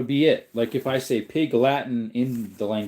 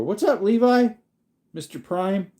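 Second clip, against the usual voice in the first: excited greeting; 10 semitones higher, 3 dB louder than usual. Real, not acted. Greeting a viewer joining.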